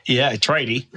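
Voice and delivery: light Aussie accent on tradie; Australian accent. Shown as a demonstration. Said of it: "it's my best Australian accent".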